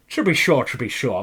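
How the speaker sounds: a lightly voiced, terrible Irish accent; mock Irish brogue, barely there; bad Irish accent. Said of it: "My Irish accent is terrible".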